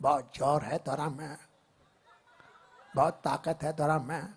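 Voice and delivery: light hint of a gritty actor; Nawazuddin impression. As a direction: grumble it like a small-town tough. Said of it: "Nawazuddin Siddiqui".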